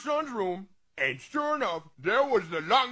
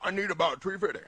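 low, soft monster request; the monster leans in to ask; lightly voiced low monster; 4 semitones lower, 5 dB quieter, faster than usual. Monster bends down and asks.

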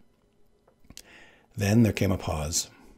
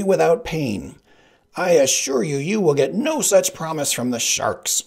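mock-courtly assassin; 9 semitones higher, 7 dB louder than usual. Sicilian promising a painless death, high and loud.

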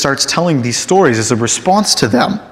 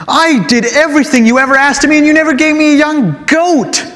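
put-on demanding older son; 4 semitones higher than usual. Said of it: "he demands to know".

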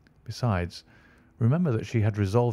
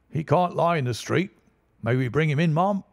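bystander asking; 6 semitones higher than usual. A narrator's reading. A bystander asks the lady to take him in. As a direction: ask the lady for help.

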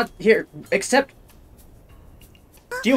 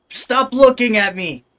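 annoyed outburst; 4 semitones higher, 3 dB louder than usual. Real, not acted. Scolding staring game creature.

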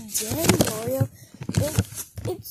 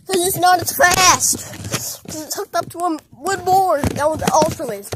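raised, higher-pitched telling-off; exasperated scolding; 5 semitones higher, 5 dB louder than usual. Acted. Friend scolds Luigi for using the fast slide, exasperated. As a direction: scold them, voice pushed up.

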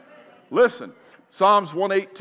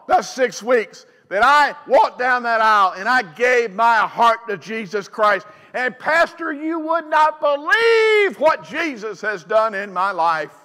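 rising, shouted witness; fervent testimony; 3 semitones higher, 4 dB louder than usual. Retold or imitated. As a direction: testify it loud to the pastor. Convert's testimony, voiced.

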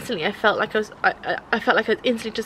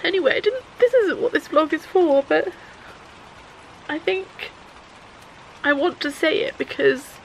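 shaky after tears; 4 semitones higher than usual. Real, not acted. Still upset after crying.

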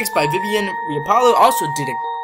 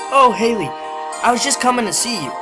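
guy voice; 3 semitones higher than usual. Acted. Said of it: "That's still a guy voice".

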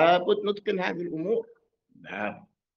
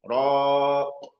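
a clear pause (sakt) after "من", then "راق" drawn out; pause before word; 4 dB louder, much slower than usual. Shown as a demonstration. Teacher showing the pause in recitation, deliberate sakt. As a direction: stop briefly, then say "راق" slowly. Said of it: "وقيل من".

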